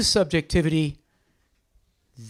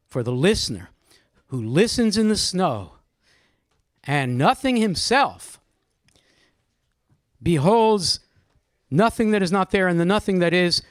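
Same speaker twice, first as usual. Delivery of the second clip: poem reading. Shown as a demonstration. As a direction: read each phrase apart with long pauses. Teacher reads the poem's last stanza.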